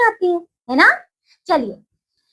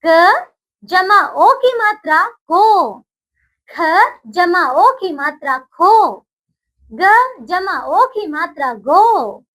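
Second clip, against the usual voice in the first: slow dictation; slower than usual. Shown as a demonstration. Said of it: "आइए बच्चों बोलिए इसे".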